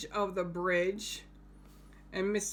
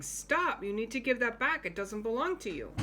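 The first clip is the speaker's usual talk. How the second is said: a hint of a stern police officer, fast; 3 semitones higher, faster than usual. Teacher voices the officer stopping the purse thief, fast. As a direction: rattle off a mild police warning. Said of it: "the police officer is saying".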